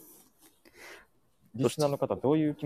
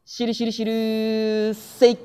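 excited entrance call; 11 semitones higher, 7 dB louder, slower than usual. Acted.

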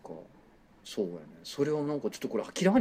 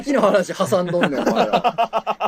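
japanese delinquent tough talk; 5 semitones higher, 5 dB louder than usual. Acted. Mock picking a fight.

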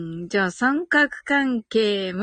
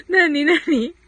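laughing; 3 semitones higher, 3 dB louder than usual. Real, not acted. Curious and laughing at a comment.

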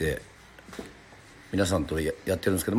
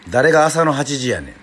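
Kansai tsukkomi; 4 dB louder than usual. Real, not acted. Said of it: "関西弁で突っ込みましたね".

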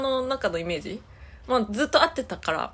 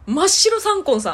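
laughing; 8 semitones higher, 6 dB louder than usual. Real, not acted. Punchline about grandma's white skin.

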